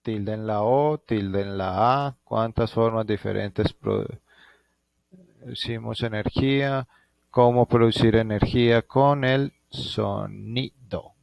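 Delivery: slow, measured dictation with drawn-out word endings; careful classroom dictation, pausing between chunks; dictating. Real, not acted. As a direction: dictate it piece by piece for pupils writing it down. Dictating questions for pupils to write.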